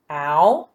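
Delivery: "Out" segmented as ow, then a separate t; sound by sound. Shown as a demonstration. Teacher has pupils listen to the sounds, segmented phonemes. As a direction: sound out "Out" in two isolated phonemes, ow, t. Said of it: "listen to the sounds in the first syllable".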